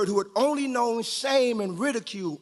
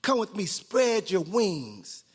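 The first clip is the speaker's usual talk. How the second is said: power and authority; slower than usual. Acted. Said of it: "spoke with power and authority".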